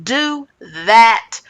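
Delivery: slow, emphatic mock yell; imitated yell. Retelling Rinna demanding an answer from Sutton, mildly mock yelling. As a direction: act out a measured yell, word by word. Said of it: "Rinna yells and says".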